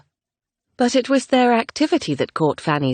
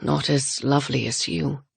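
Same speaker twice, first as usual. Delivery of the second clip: quiet lover's line; tender compliment; 3 dB quieter than usual. Acted. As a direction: say it gently to her.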